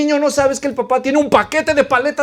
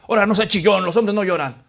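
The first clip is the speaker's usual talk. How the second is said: imitating a scolding dad; a touch of harsh reproach; mock cruel father; faster than usual. Father rebuking his crying boy, mock stern. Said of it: "no se lo dice porque sea cruel".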